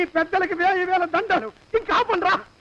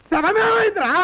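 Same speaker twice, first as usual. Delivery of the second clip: pitched up high, alarmed; panicked outburst; 6 semitones higher, slower than usual. Acted. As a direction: blurt it out in shock. Panicked shout about missing corpse. (ఆందోళనగా అరుపు)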